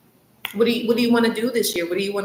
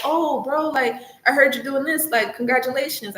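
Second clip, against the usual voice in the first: mock happy-for-you friend; 4 semitones higher than usual.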